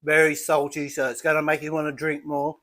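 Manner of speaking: talking through a mouthful of cheese; mouth full. Real, not acted. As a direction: speak around a bite of food. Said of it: "talking with my mouth full".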